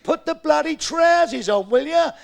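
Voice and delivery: husband losing patience, slowly demanding she put the trousers on; exasperated demand. Acted. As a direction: spell it out slowly, fed up. Husband loses patience with wife.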